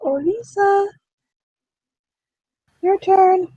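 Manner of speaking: sing-song call for a missing player. Real, not acted. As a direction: call her name across the room, stretched slow. GM calls to absent player.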